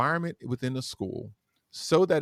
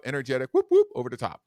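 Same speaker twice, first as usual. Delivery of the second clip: over the top; 5 dB louder, faster than usual. Shown as a demonstration. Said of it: "Daytime, hyped up".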